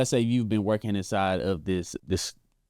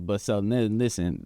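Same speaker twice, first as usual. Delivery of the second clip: normal talking voice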